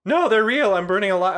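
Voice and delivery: mock burning. Player pretends to be on fire.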